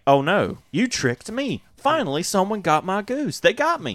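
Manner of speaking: playfully wailing loser; mock defeated villain. Djinn admitting defeat, mock whiny. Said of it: "he's like".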